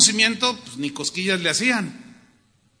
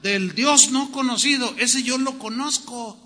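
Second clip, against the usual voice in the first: higher, emphatic announcement; eager proclaiming; 4 semitones higher than usual. Acted. Preacher as apostle revealing the unknown God, eager proclaiming. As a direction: proclaim it with confidence to the crowd. Paul answering the Greeks, acted.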